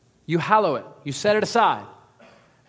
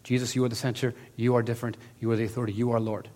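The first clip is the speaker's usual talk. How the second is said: quiet prayer; 5 semitones lower, 4 dB quieter than usual. Shown as a demonstration. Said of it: "there and saying".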